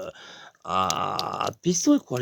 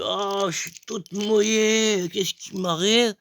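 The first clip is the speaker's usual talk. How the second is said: confused dead woman; 6 semitones higher than usual. Retold or imitated. Corpse wakes up confused.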